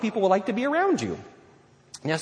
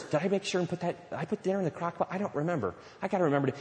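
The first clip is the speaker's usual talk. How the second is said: quick, hushed muttering to oneself; mock distracted worry, softer and hurried; fretting inner voice; 6 dB quieter, faster than usual. Churchgoer fretting about the crock pot during preaching, distracted inner voice.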